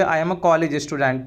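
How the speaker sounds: slow, carefully spelled-out English phrase; slow and clear classroom model phrase; slow teaching demo. Shown as a demonstration. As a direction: say each word slowly for the learner. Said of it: "तो आप बोलोगे".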